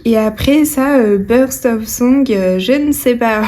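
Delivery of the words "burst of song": slow English phrase in a French accent; real French accent on hesitant English. Real, not acted. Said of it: "Vous voyez mon accent magnifique".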